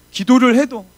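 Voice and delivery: loud, high, impassioned sermon voice; fervent preaching. Acted. Pastor exhorting the congregation to pray willingly: impassioned full-force preaching.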